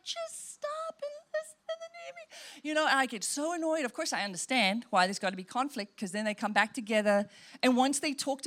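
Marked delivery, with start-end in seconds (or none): 0.0-2.7 exasperated at the TV. Retold or imitated. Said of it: "I'm like".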